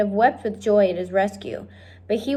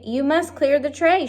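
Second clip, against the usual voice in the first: higher, bossy shouted order; 6 semitones higher than usual. Acted. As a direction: bark the order at the girl. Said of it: "shouted Cook".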